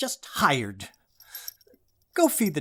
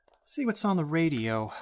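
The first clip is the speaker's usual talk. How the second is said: whisper to self; 5 semitones lower, 9 dB quieter than usual. Acted. Muttering to himself.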